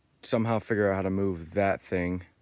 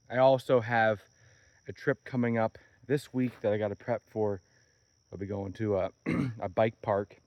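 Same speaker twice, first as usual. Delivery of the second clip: hoarse, tired morning voice. Real, not acted. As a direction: talk through a tired, scratchy voice. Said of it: "I got this tired voice going on".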